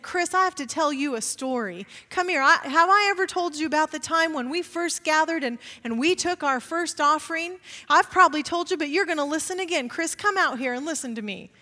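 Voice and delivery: lightly voiced old church member calling a pastor over; mild impression of an insistent old man; imitating Bud. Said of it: "You talk just like that, Bud".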